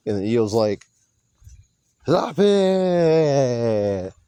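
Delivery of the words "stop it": high, drawn-out mimicked scream in gibberish Japanese; mock Japanese screaming. Wrestling fan imitating E O breaking up an argument, mock screaming. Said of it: "screaming in Japanese".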